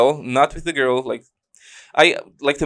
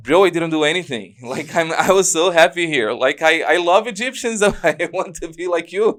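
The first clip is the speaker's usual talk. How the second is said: higher, earnest mock plea; retold pleading; 4 semitones higher, faster than usual. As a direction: plead innocence to the officials. Retelling his plea to officials.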